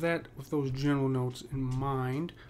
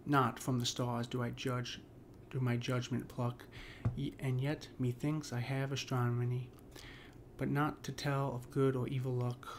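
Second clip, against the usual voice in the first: poem reading. Acted. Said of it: "so I'll read off Sonnet fourteen".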